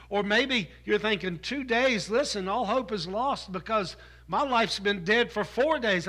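fervent sermon build; preaching at full force. Acted. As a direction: lean into the congregation's despair.

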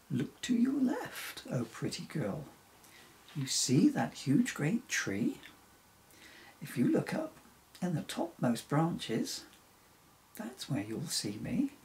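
lightly voiced reindeer with high swoops; stranded reindeer, eager. Reindeer in the treetop guides Emily to him, lightly voiced and eager. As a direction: direct the listener from afar, jumping up in pitch.

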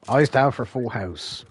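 slow announcing call; bingo caller. Pretend.

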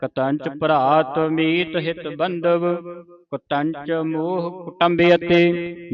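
slow, even-toned chanting read; scripture recitation. Shown as a demonstration. Teacher reading the whole verse back to students, slow recitation. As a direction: hold the long vowels, deliberate and level. Reads verse aloud as model.

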